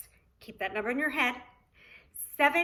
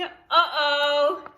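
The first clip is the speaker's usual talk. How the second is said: uh-oh; 3 semitones higher, 7 dB louder than usual. Pretend. Doorbell rings again.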